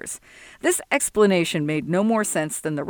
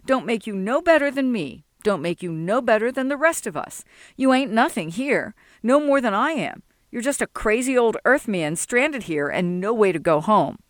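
put-on indignant young Sol; 3 semitones higher than usual. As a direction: bristle at being called a heathen. Sol's voice arguing.

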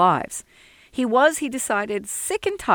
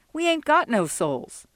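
put-on higher, defiant young voice; indignant young Sol; 8 semitones higher than usual. Sol rejecting Jesse's insult, a higher indignant voice. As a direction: bristle at being called a heathen. Sol's voice.

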